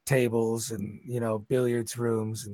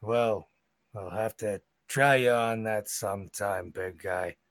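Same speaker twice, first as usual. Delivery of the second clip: bugbear voice; 3 semitones lower, 4 dB quieter than usual. Acted. Bugbear Joe teasing.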